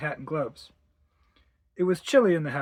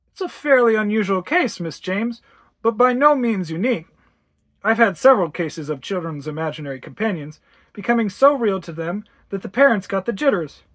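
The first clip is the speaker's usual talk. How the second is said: lightly voiced doctor, louder and measured; sympathetic doctor; 4 semitones higher, 5 dB louder than usual. Doctor advising worried mother, sympathetic and assured. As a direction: reassure like a professional, slightly raised voice.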